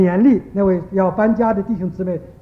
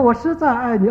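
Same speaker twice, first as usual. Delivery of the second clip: echo reply. Retold or imitated. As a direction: hand the words back as a mild mountain echo. Echo repeats the child's call. (轻描淡写地模仿回声)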